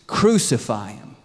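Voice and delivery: loud, drawn-out demand; slow mob chant from one voice; acted crowd cry. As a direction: call it out slowly and forcefully. Crowd calls for crucifixion.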